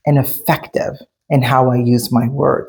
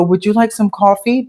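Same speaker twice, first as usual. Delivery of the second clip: sweet hostess offer, a bit higher; super nice; 5 semitones higher than usual. Retold or imitated. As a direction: offer the coffee extra sweetly. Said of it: "super nice".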